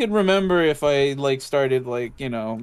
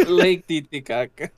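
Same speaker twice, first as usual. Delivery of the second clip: laughing. Acted. Repeats funny name laughing.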